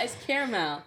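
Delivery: caramel as KARE-uh-mel, extra a sounded; three-syllable care-a-mel. Shown as a demonstration. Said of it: "There is an extra A".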